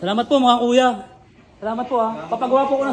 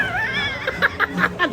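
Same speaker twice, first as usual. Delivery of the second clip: high laugh; 3 dB quieter than usual. Real, not acted. Laughs after counting earnings.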